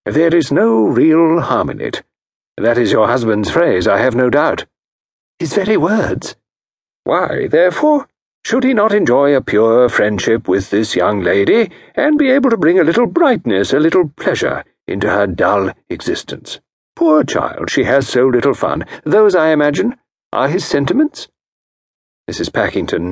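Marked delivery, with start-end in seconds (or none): 0.0-4.6 calm the jealous wife; gently reassuring consultant; soothing. Acted. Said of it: "nodded in a soothing manner". 5.4-6.4 lightly voiced aggrieved wife; Mrs Packington. 7.0-21.3 diagnose her case with calm authority; a genteel consultant voice; Parker Pyne. Acted. Pyne voice mocking husband.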